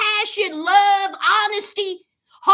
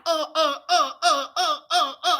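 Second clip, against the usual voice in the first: nervous stammer; 3 semitones lower than usual. Retold or imitated. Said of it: "he sounded like he had Tourette's".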